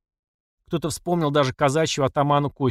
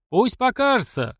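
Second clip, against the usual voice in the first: crowd shout; 10 semitones higher, slower than usual. A narrator's reading. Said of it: "закричали из толпы".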